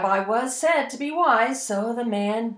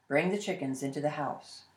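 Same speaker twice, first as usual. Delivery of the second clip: low calm rabbi; 9 semitones lower, 10 dB quieter than usual. Acted. Rabbi advises.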